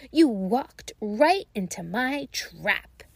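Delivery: slow gloating witch voice; cackling witch. Acted. Witch taunts the trapped children, slow and gloating. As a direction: savour every word of the trap. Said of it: "cackled the old woman".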